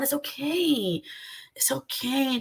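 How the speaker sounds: slow, soft mock soothing; soothing calm down. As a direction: pretend to gently calm him down. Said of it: "trying to be the little angelic lady ... tell my ex co-host to calm down".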